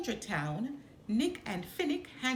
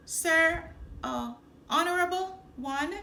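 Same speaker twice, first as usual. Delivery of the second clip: high, louder fawning stammer; nervous flattery; 7 semitones higher, 5 dB louder than usual. Acted. Nick sucking up to the crime boss, nervous and fawning.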